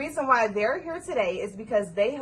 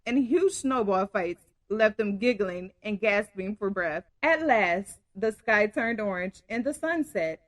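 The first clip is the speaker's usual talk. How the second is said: story narration. A narrator's reading. Reads story aloud.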